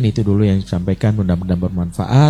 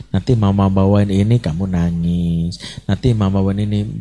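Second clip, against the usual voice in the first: worried mother. Retold or imitated. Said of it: "I message".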